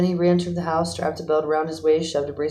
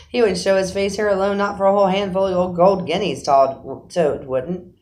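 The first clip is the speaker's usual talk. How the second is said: higher, louder, amused scoffing; laughing scorn; 4 semitones higher, 5 dB louder than usual. A narrator's reading. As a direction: laugh off the idea, slowing at the end. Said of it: "laughing heartily".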